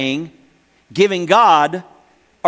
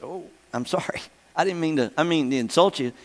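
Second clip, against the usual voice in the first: much softer, embarrassed sorry; sheepish apology; 6 dB quieter than usual. Retold or imitated. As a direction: back down gently, abashed. Apologizing to offended lady.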